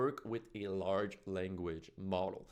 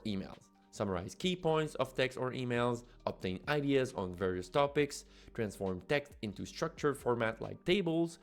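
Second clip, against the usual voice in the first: upbeat, louder promo voiceover; ad read; 4 dB louder than usual. Acted. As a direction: read it like a punchy product ad. Scripted promo read over music.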